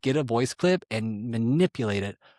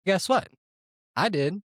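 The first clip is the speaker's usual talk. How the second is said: high, punchy reveal; triumphant; 8 semitones higher than usual. Real, not acted. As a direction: pop the question up high.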